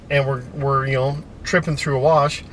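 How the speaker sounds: on a bumpy road. Real, not acted. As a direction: voice jostled by a rough dirt road. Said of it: "we're driving on a dirt road right now".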